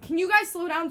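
mock yell at friends ahead; retold scream. Girl calling to friends walking ahead, mild retold scream. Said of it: "screaming at Maytal".

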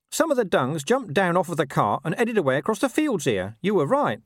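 high-pitched, chatty talking dog; scruffy dog voice, pitched well up; Gaspode. Acted. Dog reporting a scent trail to his companion, high-pitched character voice.

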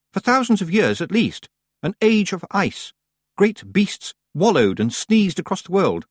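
a fussy schoolmistress pressing her point, pitched well up; fussy teacher witch. Acted. Miss Tick warns Granny about the ice, high insistent witch.

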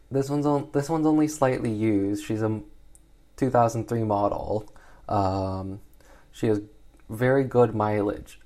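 a light car-dealer sales patter; car salesman pitch. Retold or imitated. Slave trader pitching to buyers in a mock car-dealer patter. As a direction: sell the slave like a used car, breezy. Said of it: "treating the slave market sort of like a car dealership".

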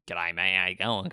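a hint of a blokey outback Aussie greeting; broad Aussie accent. Mimicking the broad suburban accent of Sydney's outskirts, light broad Australian. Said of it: "that broader accent".

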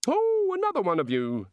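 high, delighted exclamation; bright. Acted. God spotting another one of them, brightly. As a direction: greet a new discovery brightly. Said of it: "said the god brightly".

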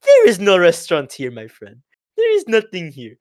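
imitated foreign official with Indian-sounding accent. Embassy man dismisses lost students, imitated Indian-sounding accent. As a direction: turn them away in a put-on Indian-sounding accent. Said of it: "there's an Indian guy telling them to leave".

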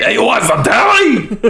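laughing. Retold or imitated. Echo of quote laughing.

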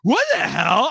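high, loud excited play-by-play; fight commentary. Retold or imitated. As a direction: call the punch like a ringside announcer. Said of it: "you were like".

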